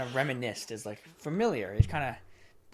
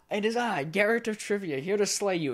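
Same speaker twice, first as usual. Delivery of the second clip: high, grand mock-heroic proclamation; heroic announcement; 6 semitones higher than usual. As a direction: announce yourself like a pompous hero before the monster. Hammy hero announcing himself to monster.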